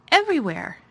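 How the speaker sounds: gasped. A narrator's reading. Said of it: "gasped Mary".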